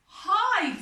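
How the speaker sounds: put-on playful mouse voice for a kids' yoga story. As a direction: call out like a frightened little mouse. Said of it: "says Mouse".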